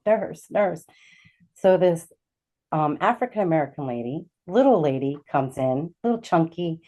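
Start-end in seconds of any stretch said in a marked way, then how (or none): none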